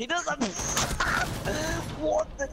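surprised. Real, not acted. Teammate surprised mid-fight.

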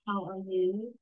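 mildly sighed greeting question. Shown as a demonstration. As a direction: ask it with a slight, impolite sigh. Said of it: "not with a sigh".

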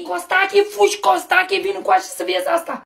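high, excited summons; calling out urgently. Acted. Wife summoning husband to see this, high calling. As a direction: call high for someone to come.

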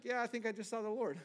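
fast, laughing "Yeah, I think I just saw the Lord"; laughing quote. Retold or imitated. Preacher joking as Gideon, laughing. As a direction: toss it off with a laugh. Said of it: "It's like".

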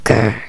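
very deep, short growl; monster growl. Acted. Monster lurking behind gaming kids, deep growl. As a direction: rumble low like a lurking beast.

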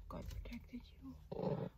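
hushed, soft and slow to the bird; relieved whisper. Real, not acted. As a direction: breathe it out in relief. Whispering to her bird after scare.

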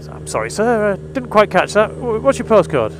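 caller voice. Retold or imitated. Voicing the confused cold caller.

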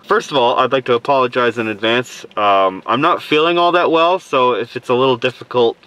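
talking muffled through a mask; stuffy cold voice behind a mask; full face dive mask. Real, not acted. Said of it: "speaking through the mask".

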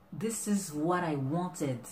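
delighted gasp. Acted. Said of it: "but her eyes, a, a face say that".

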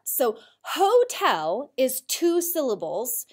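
slow, hotel split into two beats; hotel clapped out. Shown as a demonstration. Teacher to class, showing syllables slowly. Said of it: "I can clap out with two parts".

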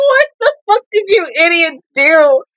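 exasperated scolding. Real, not acted. Scolding characters on screen.

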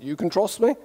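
sing-song Norwegian English; Norwegian accent. Retold or imitated. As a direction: lilt it like a Norwegian. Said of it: "I answered in a Norwegian accent".

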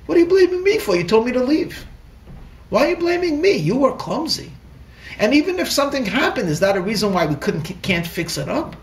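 defensive anger. Retold or imitated. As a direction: snap back at the accusation. Husband's angry reaction to blame.

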